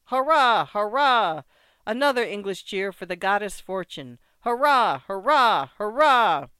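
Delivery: put-on loud, hearty old French veteran toasting; boisterous old French soldier. Old soldier to the English winner, boisterous and hearty. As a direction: bluster like a tipsy old grenadier.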